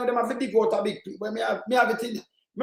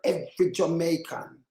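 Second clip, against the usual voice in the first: slow, mocking replay of his words, stretched out; mocking the politician; 3 semitones lower, 5 dB quieter than usual. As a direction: drag out "Every Jamaican" like a sneering parrot. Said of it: "He used the word".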